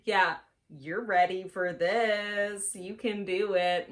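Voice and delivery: slow, hammed-up self-encouragement; mock pep talk. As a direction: coach yourself with fake confidence. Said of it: "I sat down and I was like".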